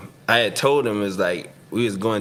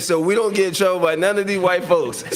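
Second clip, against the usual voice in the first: laughing; 8 semitones higher than usual. Retold or imitated. Joking to coach, laughing.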